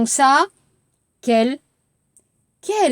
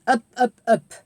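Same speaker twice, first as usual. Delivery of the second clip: climbing voice. Shown as a demonstration. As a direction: voice stepping upward on "Up, up, up.". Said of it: "on va monter".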